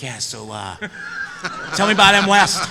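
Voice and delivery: laughing, loud eager fan question; acting the starstruck stalker, loud and giddy. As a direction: push him for gossip, grinning. Retold fan approaching actor.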